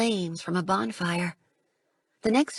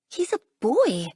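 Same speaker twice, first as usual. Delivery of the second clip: higher, startled realisation; surprised gasp; 6 semitones higher, 3 dB louder than usual. Acted. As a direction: catch your breath in surprise. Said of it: "I gasp in surprise".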